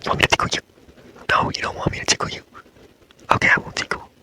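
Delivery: breathy ASMR whisper, close to the mic; whisper talk. Acted. ASMR boyfriend comforting a sleepless girlfriend, whispering. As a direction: hush it like a boyfriend soothing her to sleep. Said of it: "like, whisper talk".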